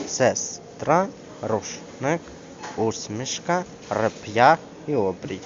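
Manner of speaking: short pauses between the syllables. Shown as a demonstration. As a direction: divide each word for a learner. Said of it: "відходять до наступного складу". (по складах, з паузами)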